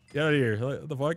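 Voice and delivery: loud shove-off yell, slowing at the end; mock angry clerk. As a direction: yell them out of the store. Acted store clerk snapping at customer.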